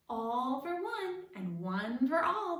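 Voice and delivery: slow, loud declaration; grand musketeer oath; declared. A narrator's reading. The frog actor declaring to the cats, slow and loud. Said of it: "the new friend declared".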